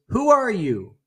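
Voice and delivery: high, drawn-up call; acted yell. Curious son yelling to the unknown voice, high yell. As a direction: yell it out across the mountains. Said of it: "he yells".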